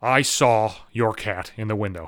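drawn-out, mock-serious statement; neighbor woman. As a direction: lightly voice an oddly solemn neighbor. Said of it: "She's like".

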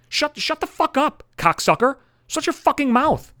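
high, loud, furious yell; ranting shout. Real, not acted. Ranting at whiny married dudes, shouting. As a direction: tell them to shut up at full volume.

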